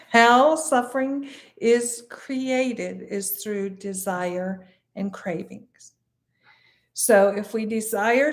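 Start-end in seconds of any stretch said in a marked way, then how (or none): 0.1-5.9 slow, measured repeat, spacing out "How suffering is created"; emphatic repeat. Shown as a demonstration. Teacher repeating a key point for listeners, slow and emphatic. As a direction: stretch and separate "How suffering is created", then ease down on "desire and cravings". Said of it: "I'll repeat that".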